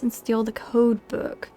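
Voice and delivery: slow secret whisper. Real, not acted. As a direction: breathe it like a conspirator. Reading a thieving task aloud.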